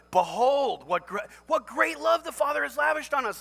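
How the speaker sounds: loud, ringing proclamation; proclaiming behold. Acted. Preacher reading scripture to the congregation, loud and ringing. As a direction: announce it like a herald. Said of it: "you don't say "behold" if".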